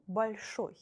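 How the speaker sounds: большой with stress on the last syllable, ой; stressed ending ой. Shown as a demonstration. Teacher to class, modelling большой. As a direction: say большой as bal-SHOY, stress on ой. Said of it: "So, for example".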